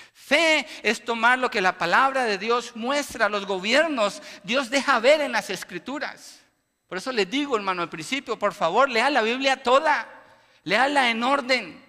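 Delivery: loud, driving sermon exhortation; preaching at full force. Acted. Preacher exhorting the church, loud and forceful. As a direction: preach it hard to the congregation.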